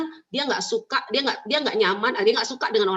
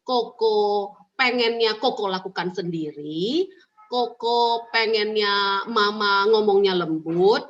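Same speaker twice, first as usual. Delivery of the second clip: gentle mother voice; slower than usual. Shown as a demonstration. Mother gently asking her son why he always says no. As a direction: ease the child into talking, slowly and tenderly. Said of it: "tanya sama dia".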